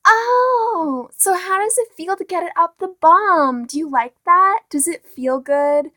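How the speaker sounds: high, loud caricature voice asking the crude question; mock crude questioner. Mocking someone asking a gay guy crude questions. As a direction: ham up the tactless asker, pitched high. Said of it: "being like".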